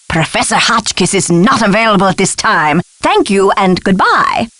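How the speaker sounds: lightly put-on recorded-message voice; mock answering machine. Professor dodging a caller, lightly mimicking a recorded message.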